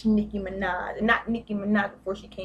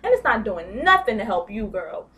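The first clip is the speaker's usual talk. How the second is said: sassy quote; 4 semitones higher than usual. Retold or imitated. Retelling a friend's sassy advice.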